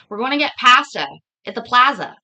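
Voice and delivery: "pasta" and "plaza" with short "a" as in "cat"; Canadian pronunciation. Shown as a demonstration. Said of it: "That's how we would say it".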